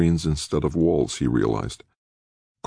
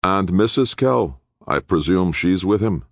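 crooked grin; 6 semitones higher, 3 dB louder than usual. A narrator's reading. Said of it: "with a crooked little grin".

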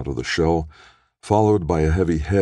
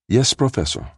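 reedy, nasal, high voice on a phone line; a thin voice through the speaker; nasal voice over phone; 10 semitones higher than usual. Acted. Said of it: "reedy nasal voice came from the desk's phone console".

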